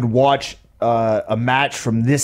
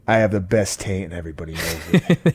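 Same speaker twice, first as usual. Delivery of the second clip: laughing catchphrase; 5 semitones lower, 4 dB quieter than usual. Retold or imitated. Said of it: "I want that to be my catchphrase".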